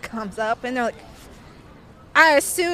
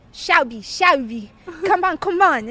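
urgent hurrying; 4 semitones higher, 4 dB louder than usual. Retold or imitated. Old woman hurrying the narrator onto the train, urgent. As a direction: hurry her along, more insistent.

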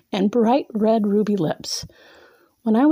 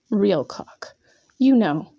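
whispering; slower than usual. Acted. Teasing whisper to captive man.

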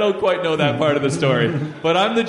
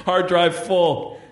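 computer voice; 2 semitones higher, much slower than usual. Retold or imitated. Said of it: "your computer would be like".

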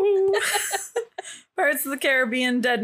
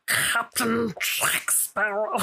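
mock pirate voice; much slower than usual. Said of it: "And I kept being like".

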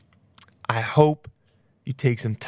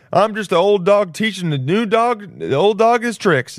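slow mock boast; 7 semitones higher, 3 dB louder, slower than usual. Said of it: "I'm like".

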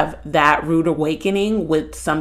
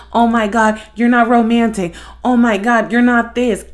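mock complaining; 3 semitones higher than usual. Acts out a nagging partner.

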